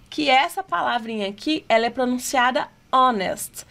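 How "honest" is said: "honest" with the H left silent. Shown as a demonstration. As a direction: start "honest" straight on the vowel, no H sound. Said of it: "ele não se pronuncia".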